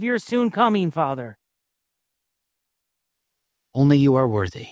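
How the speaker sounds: real closing prayer from the preacher; earnest prayer. Real, not acted. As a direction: appeal to the Father, phrase by phrase with pauses. Closes the sermon in prayer.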